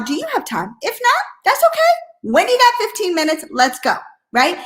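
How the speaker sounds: confident ask with posture. Shown as a demonstration. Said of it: "We have posture".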